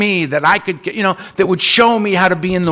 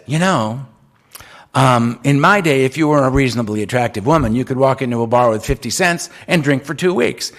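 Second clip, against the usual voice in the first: put-on old lady sharing; 7 semitones lower than usual. Seventy-five-year-old Betty tells meeting her bar tricks, lightly voiced.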